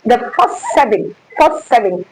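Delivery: "first" hit hard each time; repeated stress on "first". Shown as a demonstration. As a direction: lean on "first". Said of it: "emphasis on the first seven".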